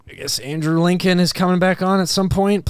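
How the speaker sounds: mock pleading. Viewer begging for the show to return after ads, mock pleading. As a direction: plead with exaggerated impatience. Mock plea during boring commercials.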